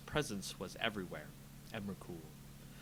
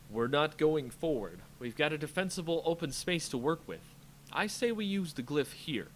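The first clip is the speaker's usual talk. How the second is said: louder, higher decisive command; firm decisive plan; 4 semitones higher, 4 dB louder than usual. Acted. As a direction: lay out the plan firmly. Jace plans in battle.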